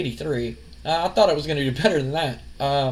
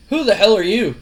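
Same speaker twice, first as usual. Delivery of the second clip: louder, higher imitated Owen; mock angry challenge; 4 semitones higher, 5 dB louder than usual. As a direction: demand it, annoyed. Owen confronts Kurt Angle.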